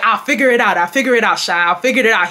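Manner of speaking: lightly imitated UK African accent. Man brushing off her question, light UK African accent. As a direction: repeat it with a hint of UK African English. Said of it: "saying that with his U K accent".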